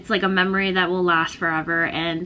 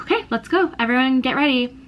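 high, bright call to leave; eager mom; 5 semitones higher, faster than usual. Retold or imitated. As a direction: pitch it way up like an eager mom rounding everyone up. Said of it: "she's like".

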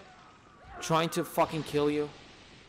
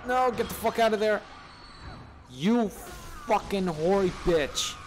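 angry shout; 5 semitones higher than usual. Real, not acted. Yelling at enemy in game.

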